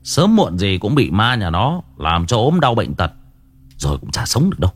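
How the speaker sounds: put-on understated older-brother scolding; mild, low-key telling-off. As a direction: scold your younger brother without raising your voice. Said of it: "Tôi mắng".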